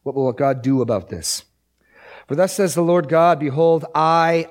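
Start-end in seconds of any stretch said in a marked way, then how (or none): 2.3-4.5 measured, rising read of God's promise, slowing on I myself; scripture reading. Acted. Preacher reads Ezekiel to the congregation, solemn and measured.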